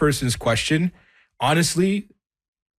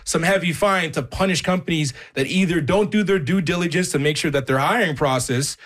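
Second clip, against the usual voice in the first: higher-pitched, worked-up insistence; getting upset; 5 semitones higher than usual. Real, not acted. Career expert calling for companies to be punished, getting upset. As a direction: keep pressing, genuinely worked up. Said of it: "getting so upset right now".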